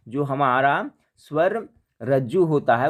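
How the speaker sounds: स्वर रज्जु repeated slowly and deliberately. Shown as a demonstration. Teacher slowing down to repeat the key term for students. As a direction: say it again slowly, leaning on स्वर. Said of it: "तो जो हमारा स्वर रज्जु होता है".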